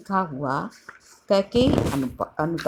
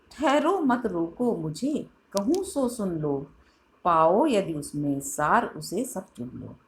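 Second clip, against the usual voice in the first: recited verse. Acted. Teacher re-quotes the poem.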